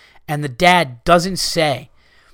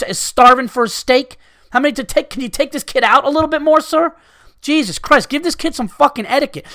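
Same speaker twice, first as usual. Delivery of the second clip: mock telling-off; 5 semitones higher than usual. Imagined telling-off of the father.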